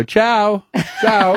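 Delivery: high, sing-song "Ciao, ciao" with a light Italian lilt; breezy Italian goodbye. Retold or imitated. Mocking mates who say goodbye in Italian, sing-song lilt. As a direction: toss off a casual Italian farewell. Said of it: "you go".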